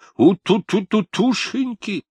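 put-on high-pitched cooing baby talk. Grandfather coos at his little granddaughter in baby talk. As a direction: coo at the toddler in a squeaky voice. Дед сюсюкает с внучкой.

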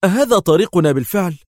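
high, loud sharp demand. A narrator's reading. Yael angrily demands the truth from Adham. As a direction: snap the question. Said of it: "قال في حدة".

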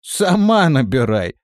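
медленно, громче, недовольно; буркнуть в ответ; буркнув. A narrator's reading. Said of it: "буркнул он". (буркнув)

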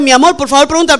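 gentle sweet-talk asking; said softly. Retold or imitated. Wife softly asking husband to ask directions, gentle. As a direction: coax him softly, like a loving wife. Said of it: "lo decimos suave".

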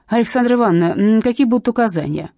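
fawning on the boss; eager subordinate. Acted. Man eager to please his boss.

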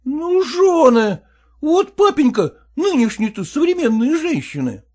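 high, slow, lamenting exclamation; pathos-laden son-in-law. Acted. Son-in-law lamenting modern wives to father-in-law, high pathos. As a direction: throw up your hands in high lament. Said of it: "с пафосом поднял руку кверху".

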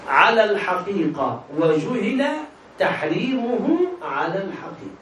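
slow, deliberate reciting of the definition. Shown as a demonstration. Teacher to student, reciting slowly and deliberately. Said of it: "ما معنى الشبهة؟".

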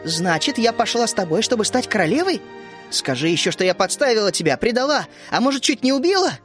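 put-on girl flaring up in offended anger; indignant outburst. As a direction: fire back at a friend who insulted her. Vishnya flares up at narrator.

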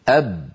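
أب with no sound or breath escaping; held b demo. Shown as a demonstration. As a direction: seal the lips on أب. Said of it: "لما يقول أحدنا أب". (نطق الباء شديدة مجهورة)

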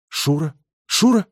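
calling the name, the second time high and loud in astonishment; bewildered, astonished. A narrator's reading. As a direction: disbelief rising into a cry. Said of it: "проговорил растерянно и изумлённо".

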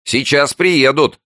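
high, slow, gloating neighbour; snide announcement. A narrator's reading. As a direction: draw it out spitefully, loud and high. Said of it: "ехидно сообщил голос из-за соседней двери". (ехидно, нараспев)

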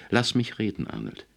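flehender Ausruf, zum Namen hin abfallend; drängend um Gehör bitten; schreiend. A narrator's reading. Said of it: "schrie Misses Potterly". (aufgeregt gerufen)

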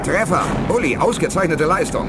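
high, loud jubilant praise; excited cheer. Acted. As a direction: cheer the hit like a victory. Treffer im Gefecht bejubelt. (aufgeregter, lauter Jubel)

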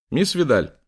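мисс громко и высоко; выкрикни мисс Видаль; громкий оклик. Acted. Лэнгдон зовёт Амбру. (громко окликая)

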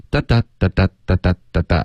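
"哒哒" pairs as a spoken drum beat; rhythmic da-da beat. Shown as a demonstration. Teacher taps out the sentence rhythm for students, rhythmic da-da. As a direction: tap out "哒哒" in even pairs. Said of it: "有没有听到这个哒哒".

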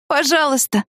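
high, drawn-out begging please; a girl's high whining plea; pleading. A narrator's reading. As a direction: beg him, voice lifted up high. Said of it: "повторила она и умоляюще".

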